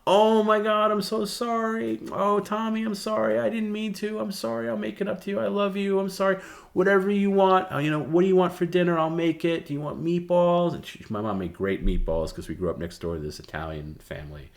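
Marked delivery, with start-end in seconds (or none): 0.1-10.7 very high, loud gushing apology; high fussing mom voice, pouring out sorry; smothering mother. Retold or imitated. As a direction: dote over the child like a guilt-struck mom. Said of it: "she started smothering me".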